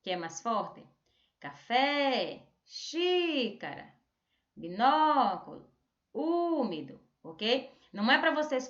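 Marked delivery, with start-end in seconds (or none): 1.4-7.0 Café, xícara, binóculo, úmido with FÉ, XÍ, NÓ, Ú held long; slow list, each accented syllable drawn out and raised; calling-out stressed syllables. Shown as a demonstration. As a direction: call each word out slowly, stretching the accented vowel. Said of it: "chamando essa palavra".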